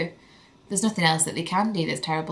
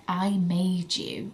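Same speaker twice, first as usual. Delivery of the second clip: slow, hushed and tender; a new mum's quiet wonder; tender awe; 3 dB quieter, much slower than usual. Retold or imitated. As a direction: marvel softly at the baby. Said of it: "I had this moment where I was like".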